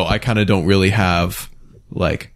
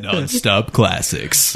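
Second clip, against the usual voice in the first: radio slogan; much slower than usual. Pretend.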